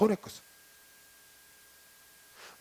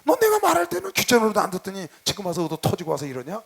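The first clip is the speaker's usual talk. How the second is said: scornful mocking retort; 4 dB louder than usual. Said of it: "속으로 비웃어".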